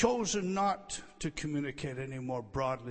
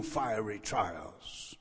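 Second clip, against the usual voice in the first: slow emphasis; 6 semitones lower, much slower than usual. Shown as a demonstration. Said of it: "It's emphatic".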